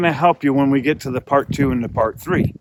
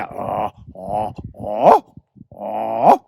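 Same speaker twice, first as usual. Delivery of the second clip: goose call ah; 6 semitones lower, much slower than usual. Shown as a demonstration. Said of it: "beginning of my goose".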